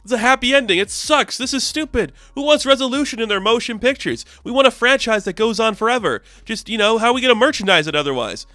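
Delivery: a sulking exec who hates endings; evil director. Retold or imitated. Director rants about happy ending.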